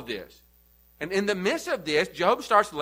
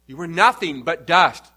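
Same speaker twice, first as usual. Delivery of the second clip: stern rebuke; 5 dB louder than usual. Acted. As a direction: scold them as mere dust. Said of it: "Paul's given this address to remind those".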